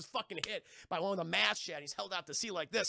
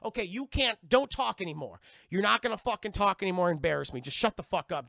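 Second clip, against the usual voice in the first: louder, fed-up telling off; exasperated scolding; 8 dB louder than usual. Retold or imitated. Jack telling Will to stop embarrassing him, loud and fed up. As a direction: shut him down, annoyed.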